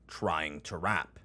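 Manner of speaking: "trying" drawn out for emphasis; stress on trying. Real, not acted. Narrator doubting a teenager's attempt to rap, stress on "trying". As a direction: lean on the word "trying". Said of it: "Emphasis on the word trying".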